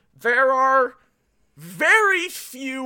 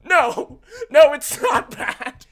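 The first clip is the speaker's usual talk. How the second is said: drawn-out, louder answer through laughter; mock reassurance; 3 semitones higher, 4 dB louder, slower than usual. Podcaster voicing the film answering its own question, mock reassurance. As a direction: laughingly play the reassuring reply. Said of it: "And then the movie goes".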